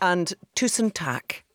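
tusen takk said the Norwegian way, slowly; Norwegian words. Shown as a demonstration. Guest teaching the host Norwegian, careful tusen takk. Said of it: "that means thank you in Norwegian".

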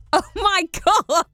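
giddy, high and laughing; a fan laughing in disbelief. Real, not acted. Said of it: "Like the child I am".

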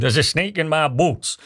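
put-on cowboy line slipping into a South London accent; slowed, failed cowboy accent that sounds like South London; South London cowboy attempt. Host retrying the doll's catchphrase in a South London-tinged cowboy accent. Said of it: "It sounded like I'm from South Bank".

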